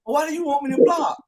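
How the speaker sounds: put-on baffled young player asking why; confused kid. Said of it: "I was confused".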